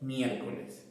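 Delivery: los miércoles drawn out very slowly; slow model of los miércoles; slow demo. Shown as a demonstration. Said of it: "No, es el miércoles".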